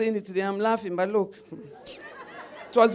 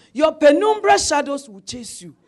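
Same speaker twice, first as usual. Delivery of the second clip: loud, high mock threat; loud mock curse, read with scorn; mock menacing letter; 4 semitones higher, 10 dB louder than usual. Reading out the hostile letter.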